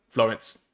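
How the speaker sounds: Florence said level, with no syllable stressed. Shown as a demonstration. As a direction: flatten Florence, no stress at all. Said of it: "maybe even no stress".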